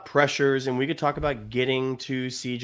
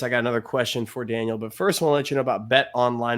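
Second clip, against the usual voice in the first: ad read. Acted. Podcast host plugging the sportsbook to listeners, brisk ad read. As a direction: rattle off the sponsor read.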